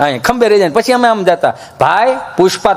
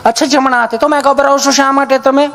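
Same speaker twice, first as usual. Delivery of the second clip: lightly voiced sweet nurse, a touch higher; 7 semitones higher than usual. Nurse asking Gabho about his dose, sweetly voiced. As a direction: ask it the way a kind nurse would. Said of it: "nurse બેન".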